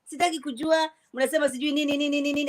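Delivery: dismissive Swahili, piling up repetitions; not caring. Shown as a demonstration. Asked to not care in native tongue, dismissive. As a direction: wave them off in rapid-fire repeats of Swahili. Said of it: "Tell us you don't care in your native tongue".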